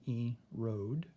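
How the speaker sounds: erode, O held long; long O in erode again. Shown as a demonstration. Teacher repeating erode so kids hear the O. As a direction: lean on the O of erode. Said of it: "You can hear the O sound".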